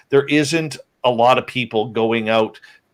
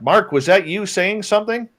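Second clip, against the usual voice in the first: calling across the meadow, pitched high; retold yell; 9 semitones higher than usual. A man yelling to his friend across a meadow, high and raised. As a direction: shout the question over to a friend. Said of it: "So we yell over at Mark".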